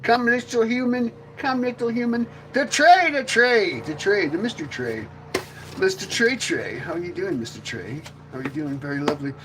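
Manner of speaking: lightly voiced alien coaxing, high at first; a hint of an alien cooing over its pet. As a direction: coax the human like a puppet master.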